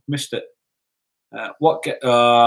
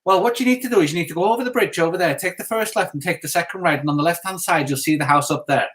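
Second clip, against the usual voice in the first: lightly imitated Irish lilt; retold directions in an amateur Irish accent; attempted Irish accent. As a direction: have a rough go at an Irish accent. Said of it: "I can't do the Irish accent".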